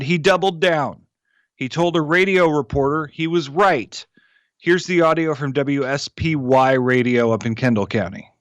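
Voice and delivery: measured commentary read from the page; scripted political column delivery; newsletter read-aloud. Real, not acted. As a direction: read your written column aloud with pointed emphasis. Reads own newsletter aloud.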